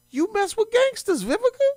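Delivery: very high, scornful; talking down to her; mock scolding. Real, not acted. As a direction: scold her from far above. Scolding the host directly.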